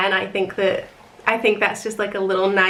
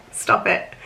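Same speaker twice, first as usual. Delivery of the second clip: whispering. Retold or imitated. Whispered "stop it" through laughter.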